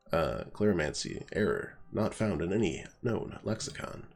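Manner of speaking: flat robot voice, computer error. Acted. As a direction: read it like a malfunctioning robot. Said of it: "At least I can do my robot voice".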